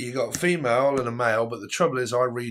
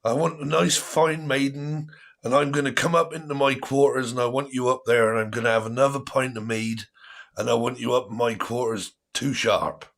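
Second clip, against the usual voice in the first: pirate voice; 2 semitones higher than usual. Pretend. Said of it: "I've started to talk like a pirate".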